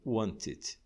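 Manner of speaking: wanted as two syllables, "want-id"; extra ED syllable. Shown as a demonstration. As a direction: sound the ED of wanted as its own syllable. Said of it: "uma outra sílaba".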